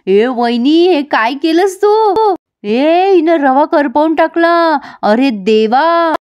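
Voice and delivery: high drawn-out horrified exclaiming; shocked scolding. Retold or imitated. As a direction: gasp at the burnt semolina, dragging each word out. Sister-in-law finds burnt semolina.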